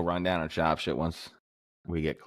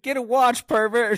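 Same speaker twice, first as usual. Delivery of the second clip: high, louder scornful brush-off; snooty woman; 7 dB louder than usual. Retold or imitated. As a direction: snap it high and disgusted. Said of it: "They're not like".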